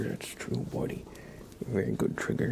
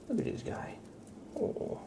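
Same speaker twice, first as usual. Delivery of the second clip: squeaky pet voice; 7 dB quieter than usual. Real, not acted. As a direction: coo it way up high to the cat. Whispering, then cooing at cat.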